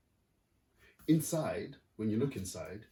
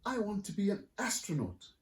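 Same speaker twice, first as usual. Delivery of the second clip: put-on higher, eager little girl; 11 semitones higher than usual. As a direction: sound like a small dreamy girl. Astrid voiced at breakfast.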